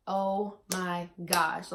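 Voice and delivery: slow, drawn-out amazement; retold awe. Vlogger reliving her positive test, slowly awestruck. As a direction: stretch each word in wonder. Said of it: "I was just in awe".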